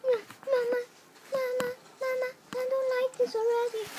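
high, frightened whimper for mama; calling for mama. Real, not acted. Gamer frightened by the game, whimpering high for mama.

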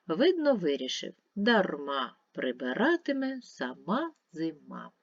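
measured verse reading, key words lifted; expressive poem reading. Acted. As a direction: recite a children's verse with lilting stresses.

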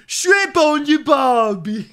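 put-on high, very loud Australian accent; mock Australian shout. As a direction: holler it in a thick, hammed-up Australian accent. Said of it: "the Australian accent's way too thick".

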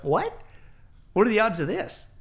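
high, loud incredulous question; amazed disbelief. Retold or imitated. Retelling the coincidence to the host, amazed. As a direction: marvel at the coincidence.

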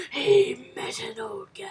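breathy hushed whisper; awed little whisper. Real, not acted. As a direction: whisper it like a secret. Hushed reaction to game scene.

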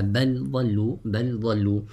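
بل with its ل clearly sounded before ضلوا; izhar. Shown as a demonstration. Teacher demonstrates the dad example to students, izhar. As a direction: keep ل and ض apart in بل ضلوا. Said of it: "recite with إظهار".

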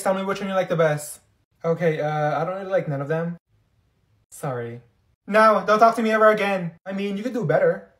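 ordinary delivery

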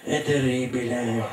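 lento e strascicato, calando alla fine; padre frastornato. Acted. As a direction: padre intontito che non capisce nulla. (padre confuso, parole lente e trascinate)

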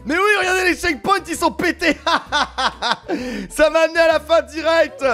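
cracking up at the broken checkpoints; laughing disbelief. Real, not acted.

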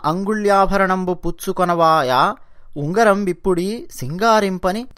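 slow, measured verse chanting; lilting Telugu poem recital; poem recitation. Acted. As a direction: intone the verse slowly.

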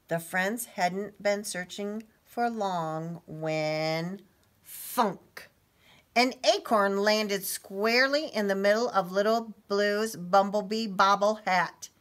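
animated storybook narration; story reading. A narrator's reading. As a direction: read it to young children with suspense. Reads story to children.

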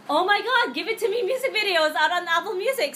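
excited fan. Retold or imitated. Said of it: "this tweet from Pauline saying".

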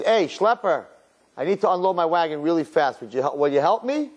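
a hint of an urgent hail; hailing passer-by. Wagon driver hailing the schlepper.

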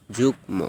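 যুগ্ম with the m sounded, jug-mo; no doubling. Shown as a demonstration. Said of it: "দ্বিত্ব উচ্চারণ হয়নি".

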